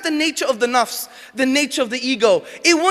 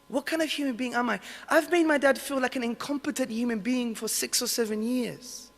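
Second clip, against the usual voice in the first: remorseful confession; 5 dB quieter than usual. Retold or imitated. Remorseful realisation at course end.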